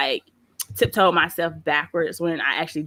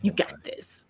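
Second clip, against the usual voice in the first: put-on soft, quiet child encouraging mom; mock little voice of calm reassurance; imitated reassuring son; 3 semitones lower, 8 dB quieter than usual. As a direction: drop right down, gently coaxing. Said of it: "my son was like".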